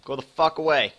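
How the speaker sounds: high, loud yell to shoo it off; panicked shout. Real, not acted. Streamer fleeing a monster, yelling high and loud. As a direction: scream at it to leave in real panic. Mob chasing the player.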